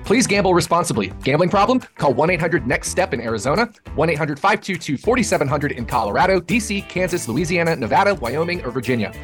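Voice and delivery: rapid-fire legal fine print; fast legal disclaimer. Acted. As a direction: rattle off the disclaimer quickly.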